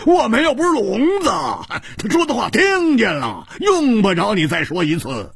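high, laughing, mocking retort; laughing loudly. A narrator's reading. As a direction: laugh it off at her. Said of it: "胡铁花大笑着说". (大笑着高声顶回去)

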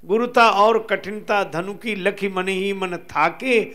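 measured devotional couplets with drawn-out line endings; verse recitation. Acted. Storyteller reciting scripture verse to listeners, lightly chanted recitation. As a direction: recite the verse, stretching each closing word.

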